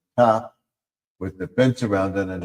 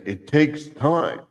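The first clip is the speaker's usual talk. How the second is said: slow reply; 6 semitones higher, slower than usual. Acted. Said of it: "And then I would say".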